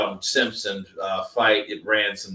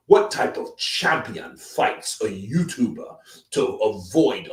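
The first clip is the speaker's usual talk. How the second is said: lightly voiced Don Charles listing the grievances; Don impression. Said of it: "love the Don impressions".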